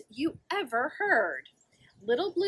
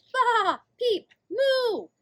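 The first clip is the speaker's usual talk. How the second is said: high loud baa, peep and moo; animal calls; 11 semitones higher, 6 dB louder, much slower than usual. Acted. Farm animals greeting the truck, high loud calls. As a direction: voice each farm animal in turn.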